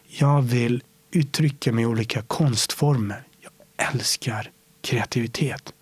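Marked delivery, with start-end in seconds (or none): 3.4-5.7 soft unvoiced whisper; whispered confession. Real, not acted. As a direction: breathe it like a secret. Confessing love of creativity. (viskar kärleksfullt)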